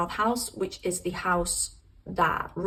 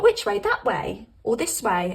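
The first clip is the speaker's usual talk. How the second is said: confused; 4 dB louder than usual. Acted. Confused you asking spirit.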